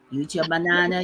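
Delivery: ordinary talk, nothing marked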